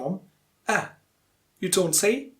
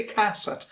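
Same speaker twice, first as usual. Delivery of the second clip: "cassette" as CASS-ette; first-syllable stress; 3 semitones higher than usual. Shown as a demonstration. Teacher quotes the mistaken stress, first syllable. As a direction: lean on the first syllable of "cassette", let the second fall. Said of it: "stress falls on the first syllable".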